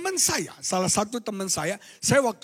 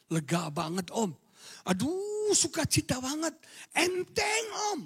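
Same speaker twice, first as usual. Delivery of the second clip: soft, high relieved voice; relieved youth; 7 semitones higher, 6 dB quieter than usual. Retold or imitated. Freed youth telling the preacher, softly relieved. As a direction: sigh out the relief. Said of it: "Apa yang kamu rasakan".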